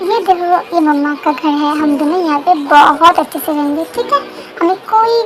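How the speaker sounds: put-on gentle baby-directed chatter; talking to baby. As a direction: reassure a little baby in a sing-song way.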